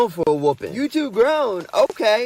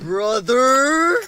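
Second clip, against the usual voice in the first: yelling across the room; 5 semitones higher than usual. Acted. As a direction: shout his name across the house. Calling brother about missing Oreos.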